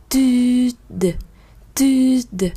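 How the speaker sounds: "tude" rising first and then falling; correct tude. Shown as a demonstration. Teacher to students, modeling the rise and fall. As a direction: lift the vowel of "tude", then let it drop. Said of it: "Các bạn phải có một khoảng lên, rồi sau đó mới xuống".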